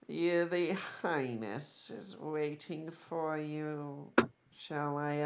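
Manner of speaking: slow, soft, oily politeness; sarcastic courtesy. Acted. Weaselly elf offers the party an escort, softly sarcastic. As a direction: draw out the courtesy with veiled sarcasm. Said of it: "Total sarcasm".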